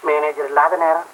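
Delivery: ordinary talk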